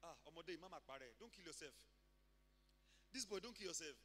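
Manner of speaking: low, soft caring act; gently caution, feigning care; hushed false sympathy; mock concern. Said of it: "like he cares about us".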